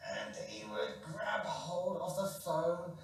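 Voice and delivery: slow whispered narration. A narrator's reading. Storyteller to children, whispering as he grabs the phone. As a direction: whisper it like a secret.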